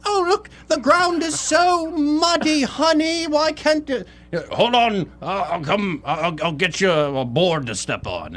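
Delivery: slow, high British lady voice; the lady sighing about the mud in high British. Retold or imitated. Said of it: "I don't know why she's British".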